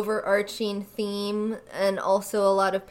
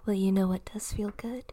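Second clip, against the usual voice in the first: ASMR whisper. Pretend. ASMR teasing continues.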